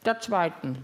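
talking with mouth full; words round a bite of carrot. Real, not acted. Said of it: "nicht mit vollem Mund reden".

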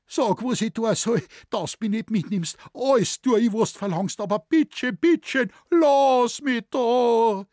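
mimicking the shoemaker begging the devil; imitated sobbing plea. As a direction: plead in a high, frantic whimper. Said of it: "hat er geschluchzt".

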